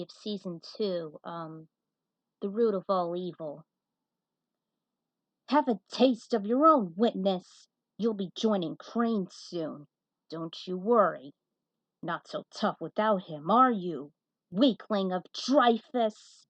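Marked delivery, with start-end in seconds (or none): 5.5-16.5 a touch of menacing taunt; mild roar. Acted. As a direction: sneer at her, lightly voiced villain. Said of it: "Holly roared".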